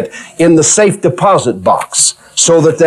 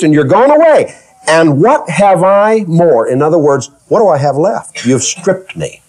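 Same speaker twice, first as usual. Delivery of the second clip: woe is me whine; 2 semitones higher than usual. Retold or imitated. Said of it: "the woe is me syndrome".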